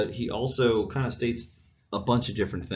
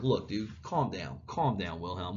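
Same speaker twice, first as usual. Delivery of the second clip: calming Bismarck; 5 dB quieter than usual. Retold or imitated. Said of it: "And Bismarck's like".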